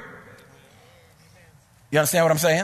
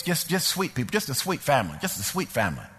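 softer, lower, sinking voice; tender regret; 3 semitones lower, 5 dB quieter than usual. Real, not acted. Boss remembering the fired man's family, tender regret. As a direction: let it drop soft with sympathy.

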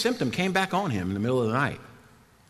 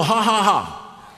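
slow, spelled-out mock laugh, pitched up; defiant mock laugh; 4 semitones higher, much slower than usual. Shown as a demonstration. Preacher showing listeners how to answer the devil, mock laughing. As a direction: draw out each ha deliberately. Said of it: "tell the devil".

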